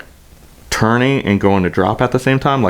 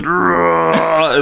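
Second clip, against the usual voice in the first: drawn-out slow-motion roar, half laughing; slow-motion groan; 9 semitones higher than usual. Retold or imitated. Retelling the crash in slow motion, drawn-out mock groan. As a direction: mimic a slowed-down yell.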